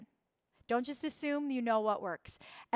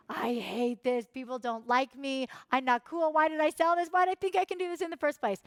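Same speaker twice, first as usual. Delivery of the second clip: ego firing up; 2 semitones higher, 3 dB louder than usual. Acted. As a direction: act out a rising inner panic. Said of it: "Your ego is gonna fire all the way up".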